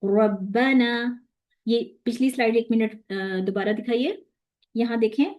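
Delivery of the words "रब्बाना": रब्बाना drawn out; slow recitation. Shown as a demonstration. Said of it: "अगर हम इसको यूं पढ़ते हैं".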